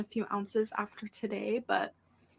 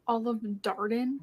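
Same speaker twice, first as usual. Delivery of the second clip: "Olive Garden" stretched slowly, rising at the end; correcting yourself in slow motion; slow motion correction; slower than usual. Real, not acted. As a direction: spell out "Olive Garden" slowly to fix the slip. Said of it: "put it in slow motion to highlight it".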